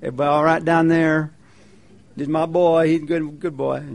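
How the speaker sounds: mock folksy friendly God; chatty and light, not divine; nice little voice. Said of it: "a nice little voice that says".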